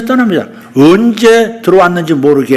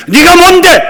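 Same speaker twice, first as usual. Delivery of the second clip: very high, loud commanding rebuke; 13 semitones higher, 7 dB louder than usual. Shown as a demonstration. Preacher showing how to rebuke enemies, loud commanding shout. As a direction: cry out to rebuke the enemy. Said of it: "꾸짖어야".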